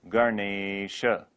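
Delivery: Ganesha drawn out as "ga-neee-sha"; long e in Ganesha. Shown as a demonstration. Teacher modelling a Sanskrit word, long-e Ganesha. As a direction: hold the middle e of Ganesha. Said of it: "will always be long".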